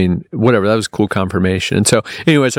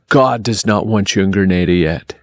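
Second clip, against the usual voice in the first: imitating a Jamaican man, lower and solemn; lowered voice for a retold weighty pronouncement; deep voice; 4 semitones lower than usual. Traveller imitates the Jamaican booth guy's warning, deep voice. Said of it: "in this deep voice".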